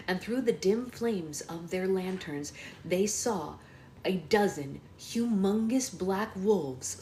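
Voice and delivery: animated audiobook-style reading; unfolding the scene for young listeners; story narration. A narrator's reading. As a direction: read aloud like a storybook.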